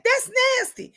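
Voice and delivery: high-pitched mimicked objection; retold disgust. Friend objecting to her son's behavior, mimicked disgust.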